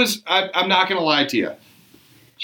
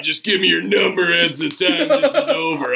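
acting all cool. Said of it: "talking like that".

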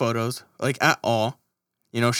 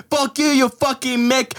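higher, a put-on Boston gangster accent; mock Boston accent; 9 semitones higher than usual. Playing a Boston gangster for a friend, mock Boston accent. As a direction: snarl it in a fake Boston accent. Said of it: "Maybe that might be Boston".

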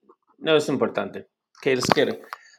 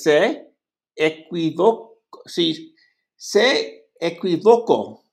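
slow careful reading; slower than usual. Shown as a demonstration. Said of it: "¿Cómo?".

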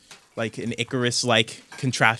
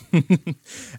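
light chuckle; 6 semitones higher than usual. Acted. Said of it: "Sarah just lets out a chuckle".

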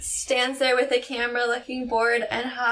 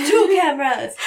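loud, higher mock shout broken by laughter; imitated scream; 5 semitones higher, 7 dB louder than usual. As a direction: shout it like an over-the-top photographer, laughing. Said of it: "this guy screams everything that he says".

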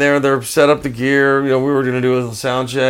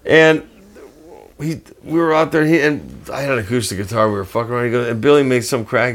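ordinary delivery

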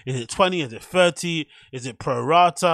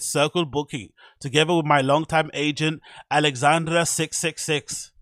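raised, emphatic mock German delivery; German accent; 3 semitones higher, 5 dB louder than usual. Reading a DJ's agency announcement, mock German accent. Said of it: "my German accent".

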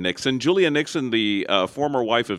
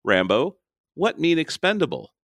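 questioning broken English, pitched up on the question; Julia Nixon; 7 semitones higher than usual. Retold or imitated. Co-host repeating the guide's line to Rambo, imitated film heroine. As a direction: imitate her plain question, high at the end. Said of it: "She just says".

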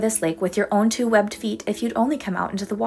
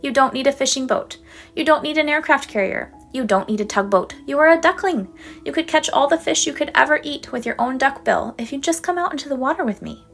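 Mama duck, higher, fondly telling off her silly duckling; exasperated but loving, to a silly child; gently scolding mother duck; 5 semitones higher, 3 dB louder than usual. Acted. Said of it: "Mama quacked".

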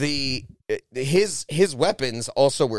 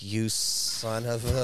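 laughing mock curse; 6 semitones lower, 6 dB quieter, slower than usual. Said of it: "and I was like".

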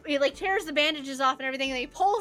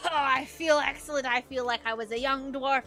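jubilant dwarf boasting; 4 semitones higher, 4 dB louder than usual. Acted. Dancing dwarf bragging to the healer, jubilant. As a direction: brag like a rejuvenated old fighter.

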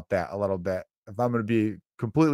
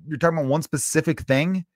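exasperated retort; 5 semitones higher than usual. Retold or imitated. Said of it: "I'm like".

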